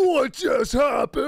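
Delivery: loud, high, drawn-out yell; shouted disbelief. Acted. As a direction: cry out slowly in comic shock. Mock alarm during on-air bit.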